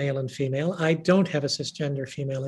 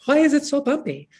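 mock worried passenger; 10 semitones higher, 5 dB louder than usual. Frightened passenger asks attendant.

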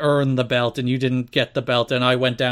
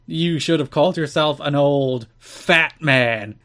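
quoting Lawler; slower than usual. Retold or imitated. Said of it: "Brian Lawler is like".

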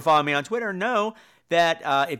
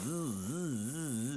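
robot buzz; 3 semitones lower, 15 dB quieter than usual. Retold or imitated. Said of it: "robotic wheelchair".

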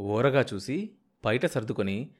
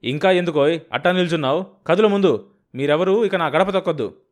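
loud, much higher furious tirade; brother-in-law raging at the husband before leaving; furious shouting; 6 semitones higher, 7 dB louder than usual. Acted. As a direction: rage at him and storm off. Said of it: "విసురుగా వెళ్ళిపోయాడు".

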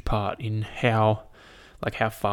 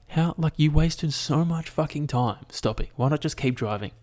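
retorting to the driver; 5 semitones higher than usual. Retold or imitated. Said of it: "And I was like".

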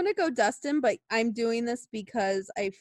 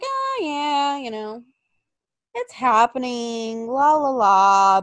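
mock nonchalant; 4 dB louder, slower than usual. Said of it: "before, I was like".

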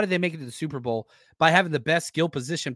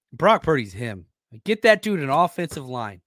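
emphatic, pounding the table; banging the desk; 3 semitones lower than usual. Real, not acted. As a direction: thump the desk while you talk. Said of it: "I gotta quit hitting the table".

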